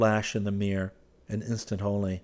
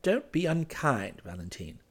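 slow, higher plea, falling away; urging; 7 semitones higher than usual. A narrator's reading. Clifford pleads with Valentine, urging. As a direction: plead with her gently to relent. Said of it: "he urged".

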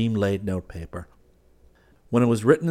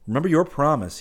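lilting reminder, pitched up; smiling; 7 semitones higher, 4 dB louder than usual. A narrator's reading. Hastings reminding Clifford of his promise, smiling. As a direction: say it through a smile. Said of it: "he smiled".

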